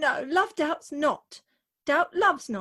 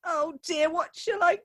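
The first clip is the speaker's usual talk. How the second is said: tearful wail; 2 semitones higher than usual. Acted. Bride crying again.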